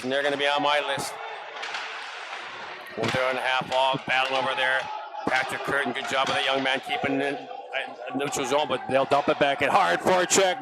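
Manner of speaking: brisk running hockey commentary; play-by-play. Acted. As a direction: follow the puck line by line.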